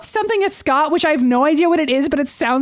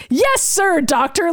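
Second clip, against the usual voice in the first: retold eager obedience, pitched up; imitating eager excitement; 3 semitones higher, slower than usual. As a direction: answer like an excited follower. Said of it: "like, really excitedly".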